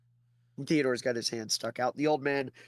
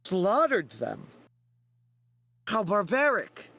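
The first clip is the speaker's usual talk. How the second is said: higher, slow mock horror; fake shock; 5 semitones higher, slower than usual. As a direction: put on shocked outrage, drawn out. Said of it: "fake shocked expression on his face".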